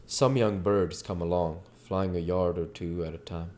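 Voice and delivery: plain narrator read; story narration. A narrator's reading. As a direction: settle into the narrator. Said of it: "we're back to the narration portion".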